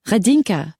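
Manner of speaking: high-pitched excited squeal; high, eager female call. Acted. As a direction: squeal the name. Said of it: "a female voice squealed".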